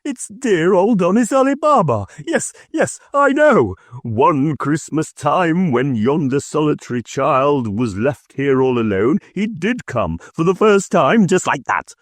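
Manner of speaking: high, eager, half laughing half crying; excited and tearful. A narrator's reading. Scrooge recalling his lonely childhood, high excited gush. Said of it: "extraordinary voice between laughing and crying".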